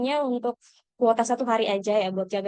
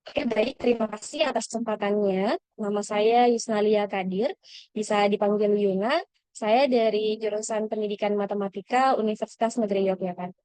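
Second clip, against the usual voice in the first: formal, even self-introduction as if presenting; presentation-style introduction. Shown as a demonstration. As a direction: introduce yourself like a rehearsed presentation, rising at phrase ends. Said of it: "terlihat seperti presentasi".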